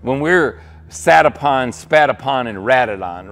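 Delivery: slow, loud and driven, hitting "sat" and "spat". Acted. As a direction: preach it out to the room, then drop on "ratted on". Verse punched to the crowd.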